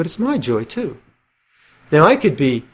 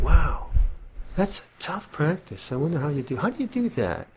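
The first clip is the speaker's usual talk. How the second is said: gentle empathy; 3 semitones higher, 7 dB quieter than usual. Retold or imitated. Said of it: "Whereas empathy is like".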